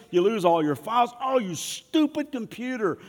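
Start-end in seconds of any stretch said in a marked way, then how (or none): 1.2-3.0 mock frustration. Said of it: "computer crashes".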